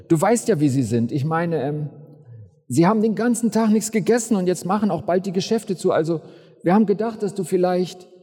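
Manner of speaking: stockend und entschuldigend, etwas höher; zögerlich, verlegen. Acted. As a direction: druckse herum, als störe man ungern den Meister. Jünger stört Jesus zögerlich. (Jünger bittet Jesus verlegen und stockend)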